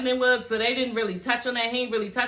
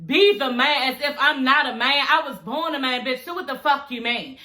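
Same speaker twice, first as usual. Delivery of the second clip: mildly worked-up, acted indignation; indignant retort; 2 semitones higher than usual. Host answers as the insulted man, indignant. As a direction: play an offended man firing back.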